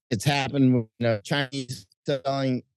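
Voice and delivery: audio cutting out; choppy broken connection; corrupted glitchy audio. Real, not acted. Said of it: "your audio is cutting".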